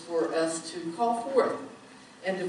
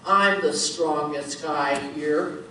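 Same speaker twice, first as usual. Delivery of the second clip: slow, lower tough-guy boast; 3 semitones lower, 5 dB louder, slower than usual. Acted. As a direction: puff up like a burly biker. Burly biker answers.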